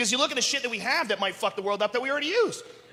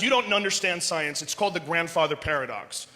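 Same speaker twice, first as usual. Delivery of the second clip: lightly voiced nerdy know-it-all; 6 semitones lower, 4 dB quieter than usual. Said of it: "And the guys".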